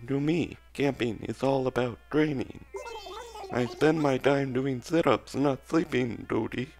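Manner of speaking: creepy put-on robot voice; lightly voiced robot frog jock. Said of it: "That voice is probably super creepy".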